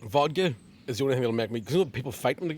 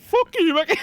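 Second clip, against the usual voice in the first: mock yell; 8 dB louder than usual. Friend snaps back, retold.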